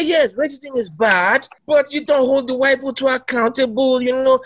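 mock pious voice. Voicing hypocritical churchgoers.

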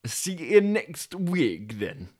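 Yorkshire delivery driver; drawn-out Yorkshire farewell. Acted. Driver leaving Toby, slow Yorkshire accent. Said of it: "it'll be another Yorkshire".

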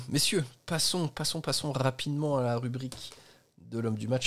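« passons » et « rubrique » avec des r roulés. Real, not acted. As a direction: rouler les r de « passons ». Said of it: "je roule mes R". (roule bien les r de « rubrique »)

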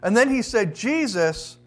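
deliberate, solemn public reading of a verse; scripture reading. A narrator's reading. Preacher reads the criminal's words from Luke, deliberate scripture reading. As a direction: read it out with measured weight.

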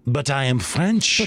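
slow, lightly put-on French accent. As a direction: imitate a customer with a French accent. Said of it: "really good French accent".

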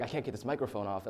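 put-on Dutch accent. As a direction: quote them with a hint of Dutch accent. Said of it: "like, a Dutch accent".

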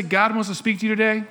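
call out to neighbour. Shown as a demonstration. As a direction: turn and say it to someone. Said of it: "look to somebody around and just say".

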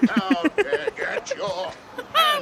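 builds from talk to a high, loud yell; rising yell. Real, not acted. Arrested man yelling.

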